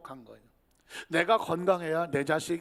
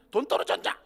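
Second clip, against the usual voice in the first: sour whispered jab; 4 semitones higher than usual. Acted. Sour reply to compliment.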